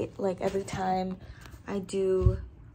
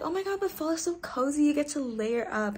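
gushing fan; 7 semitones higher, 3 dB louder than usual. Retold or imitated. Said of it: "people are like".

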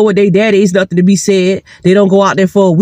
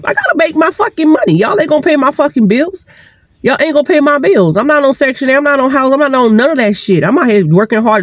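higher, heated venting; heated rant; 6 semitones higher than usual. Real, not acted. Mother venting at CPS about her bills, heated. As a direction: let the anger rise on every line.

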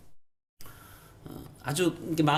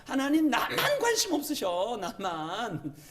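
high-pitched, insistent pleading questions; plaintive, piled-up grievances; aggrieved complaint to God; 8 semitones higher than usual. Acted. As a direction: protest to God like a hurt believer. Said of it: "그런 마음 들 때가 있으시죠?".

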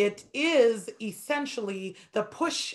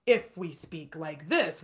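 slow, even robotic speech; mild robot voice; 5 semitones lower, slower than usual. Shown as a demonstration. Teacher mimics robot speech to show no rubato. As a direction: lightly flatten every syllable like a machine. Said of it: "which is like a robot".

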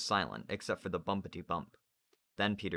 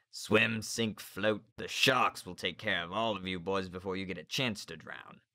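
gleeful cruel teacher. Acted. Narrator voices Grumpkin.

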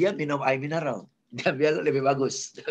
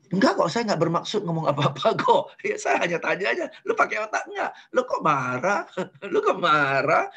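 innocent rude person. Retold or imitated. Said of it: "Tapi kalau dia bilang".

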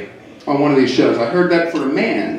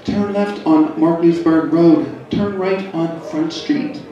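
sexy GPS voice; 3 dB quieter, slower than usual. Retold or imitated. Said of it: "in this lovely, sexy voice".

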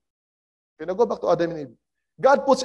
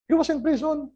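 pitched up on "He was in prison"; higher, stressed repeat; 8 semitones higher than usual. Acted. Preacher repeats it higher to the congregation for emphasis. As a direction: stress "He" high.

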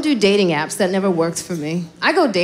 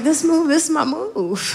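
proud defense; 8 semitones higher than usual. Retold or imitated. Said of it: "I was like".

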